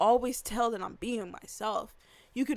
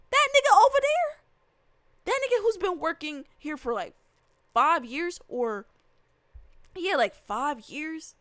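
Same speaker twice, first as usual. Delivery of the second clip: much higher and louder, in disbelief; incredulous yell; 6 semitones higher, 5 dB louder than usual. Retold or imitated. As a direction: blurt it out like you can't believe they don't know him. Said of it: "And I'm like".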